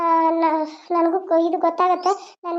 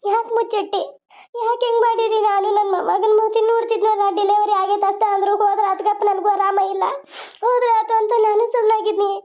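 lightly voiced old grandmother, pleading and hurt; a hint of a wounded granny begging for answers; grieving grandmother; 2 semitones higher than usual. Grandmother begging silent Sharada to speak, pleading.

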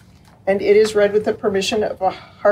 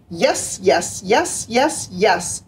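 squeaky mice; much slower than usual. Acted. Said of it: "squeaked the mice".

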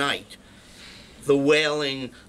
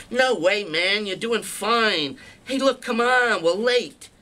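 urgent brush-off; 6 semitones higher than usual. Retold or imitated. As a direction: wave off his fear and rush him along. Brushing off a scared friend.

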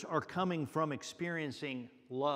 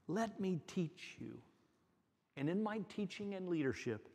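tender invitation. Acted. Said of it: "Jesus says".

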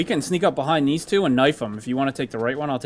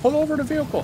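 mock cop order; 13 semitones higher, faster than usual.

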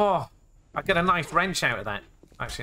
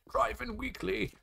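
high, soft, slow playful title; 6 semitones higher, 9 dB quieter than usual. Pretend. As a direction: draw the title out softly up high. Repeats the magazine title playfully.

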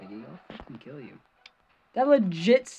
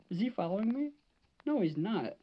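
ordinary delivery

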